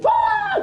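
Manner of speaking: sudden high mock scream; retold scream. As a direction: yelp like a startled man. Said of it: "dia jerit".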